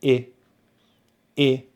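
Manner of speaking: short, lax IH as in "bitch"; short vowel demo. Shown as a demonstration. Teacher showing relaxed lips, short lax IH sound. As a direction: cut "I" to a brief IH, lips relaxed. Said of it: "notice my lips are relaxed".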